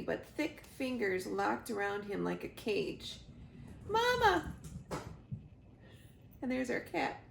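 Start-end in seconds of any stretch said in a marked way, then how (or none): 3.9-4.5 high, loud cry for his mother; gosling crying out for help, high and loud; panicked cry. Acted. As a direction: call out as he's seized. Goose grabbed by giant robot.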